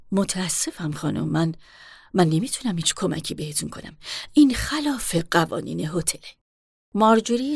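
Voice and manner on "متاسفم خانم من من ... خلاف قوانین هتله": lower, curt refusal of a stern manager; stern hotel manager. Acted. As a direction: speak down to her, unmoved. Manager's voice again.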